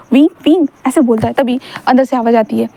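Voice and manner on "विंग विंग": raised, searching call of a name. Acted. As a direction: call out lightly for someone missing. Searching and calling out for Wing. (किसी को ढूंढते हुए पुकारना)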